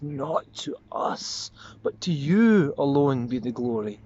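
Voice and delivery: drawn-out humble plea rising into praise; changed tone. Acted. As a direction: hold back, then give it all away on YOU. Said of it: "hear the change of tone in his voice".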